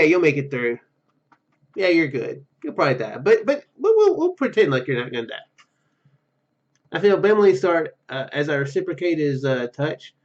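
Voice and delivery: ordinary talk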